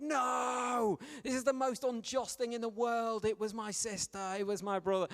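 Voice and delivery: a hammed-up kid crying injustice; mock outraged child. Sibling protesting to parents about unfair punishment, hammed-up loud wail.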